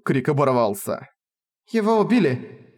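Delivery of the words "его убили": alarmed cry. Acted. Cry over a killing.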